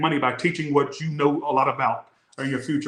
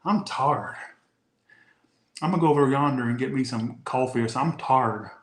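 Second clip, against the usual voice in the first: put-on white Southern accent. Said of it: "they used to go literally".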